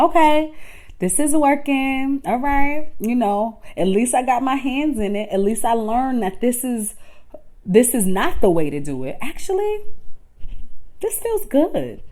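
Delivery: light, hopeful pep talk to yourself; encouraging self-talk. Acted. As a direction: coax yourself along kindly. Acted encouraging inner voice.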